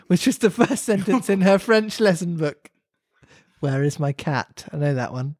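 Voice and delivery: measured storybook read-aloud; story narration. A narrator's reading. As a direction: read it aloud like a children's classic.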